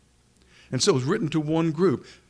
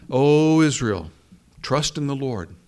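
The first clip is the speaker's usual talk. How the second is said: proclaiming psalm; 6 dB louder than usual. Shown as a demonstration. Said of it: "You hear that in the Psalms".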